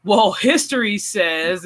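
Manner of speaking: slow, lightly voiced teacher; teacher correcting. Imagined teacher answers the pupil, slow mock lecturing. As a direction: draw it out like a mock schoolteacher. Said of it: "the teacher's gonna go".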